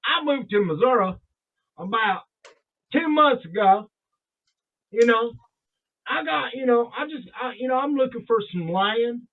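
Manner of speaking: light imitation of Aaron's Missouri accent. Brother telling of his move to Missouri, in Aaron's accent. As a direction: put on a slight Missouri country accent. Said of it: "say it the way Aaron says it".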